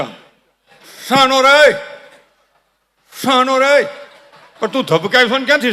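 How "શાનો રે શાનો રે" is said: high, abrupt mock command; father hushing child. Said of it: "અને બાપુજી મારતો તમે જોજો". (બાપુજીનો ઊંચા સૂરે ઠપકો)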